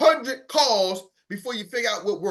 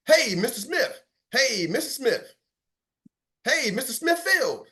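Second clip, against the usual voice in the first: energetic greeting; 6 semitones higher, slower than usual. Shown as a demonstration. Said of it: "with the same intensity".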